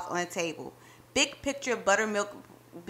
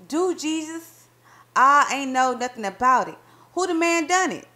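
astonished; 5 semitones higher, 5 dB louder than usual. Acted. Wife amazed by the new ice cream parlor, higher. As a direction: gasp of wonder, then press for news.

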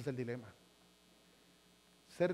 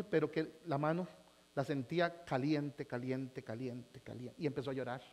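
fading dramatic hush; 6 semitones lower, 7 dB quieter, slower than usual. A narrator's reading.

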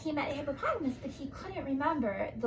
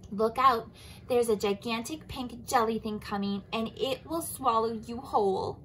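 urgent warning. Acted. Anteater warns Giraffe.

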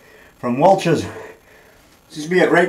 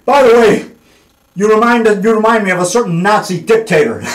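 teasing quote; 3 semitones higher, 4 dB louder than usual. Retold or imitated. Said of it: "he says".

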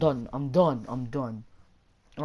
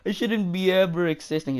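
mock sorry. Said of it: "Just kidding".

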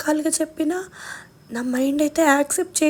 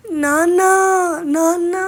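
calling out louder, rising on నాన్న; a sister's shout for her father, retold; 3 semitones higher, 6 dB louder, slower than usual. Sister shouting for father on the phone, retold loud. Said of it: "గట్టిగా అరిచిన అరుపులు".

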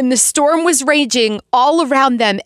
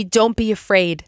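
gentle reassurance; 5 semitones lower than usual. Retold or imitated. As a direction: speak comfort to a worried heart. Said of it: "I'm hearing Jesus say to me".

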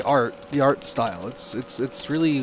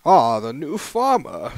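slow, lightly put-on greeting; tryout character voice; 2 semitones higher, 6 dB louder, slower than usual. Townsman greets the new farmer, slow tryout voice. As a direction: draw it out as a game character. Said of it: "I'll have to pick a different voice".

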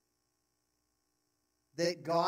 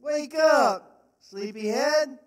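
high, loud shout calling down a hill; David shouting down to Abner from the hill; shouted taunt; 9 semitones higher, 10 dB louder, slower than usual. Acted. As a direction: yell across the valley to wake him. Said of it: "he shouted down to Abner".

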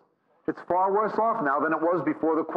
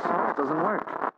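slow, drawn-out "It doesn't work"; slow verdict; much slower than usual. Acted. Preacher driving home his point to the congregation, slow and drawn out. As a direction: stretch the verdict out.

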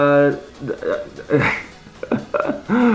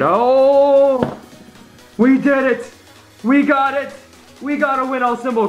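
shrieking jackpot winner; 9 semitones higher, 4 dB louder than usual. Real, not acted. Scratch ticket big win reveal.

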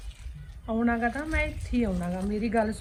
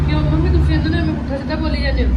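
loud, fast rebuke of her mother; angry scolding; 3 semitones higher, 8 dB louder, faster than usual. Acted. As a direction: snap at mom, louder and quicker. Daughter confronts mother angrily.

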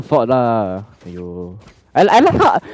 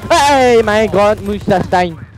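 a hammed-up German accent, higher; 8 semitones higher, 4 dB louder, slower than usual. Gamer hyping his teammate in a mock German accent. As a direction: shout it like a cartoon German. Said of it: "Mein Gott".

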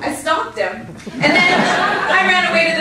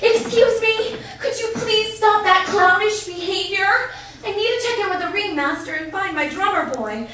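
mad; 4 semitones higher than usual. Retold or imitated. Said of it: "this time I was mad".

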